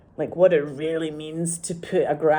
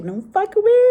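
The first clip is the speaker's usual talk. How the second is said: high, loud shocked cry; imitating a stunned nephew; retold disbelief; 9 dB louder than usual. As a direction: squeal it in disbelief.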